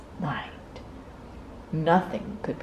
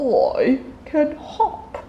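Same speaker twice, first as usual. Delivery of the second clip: smiling; 9 semitones higher, 5 dB louder, slower than usual. A narrator's reading. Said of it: "smiled big nut brown hare".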